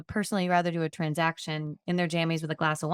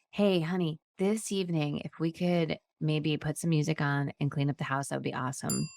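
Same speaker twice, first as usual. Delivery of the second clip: sweet request; 2 semitones lower than usual. Shown as a demonstration. Asking her husband to tidy the house, sweetly and gently. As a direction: ask nicely, as if doing him a favour. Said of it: "Same statements, different tone of voice".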